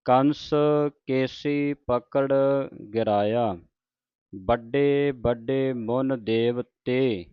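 drawn-out devotional reading, line by line; slow scripture recitation. Shown as a demonstration. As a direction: recite it slowly like Gurbani santhiya. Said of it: "ਇੱਥੇ ਵਿਸਰਾਮ ਲਾਉਣਾ ਹੈ". (ਹੌਲੀ ਹੌਲੀ ਪਾਠ ਦਾ ਉਚਾਰਨ)

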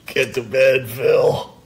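loud, playful order; hammed-up stern bedtime order; mock command. Mock ordering Phil to bed.

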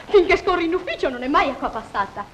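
tearful. Acted. Jealous daughter quarrels with husband.

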